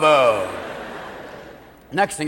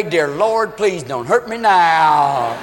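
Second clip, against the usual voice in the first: hungover prayer; 3 semitones lower, much slower than usual. Acted.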